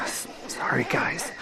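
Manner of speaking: whispering. Real, not acted. Whispering to audience.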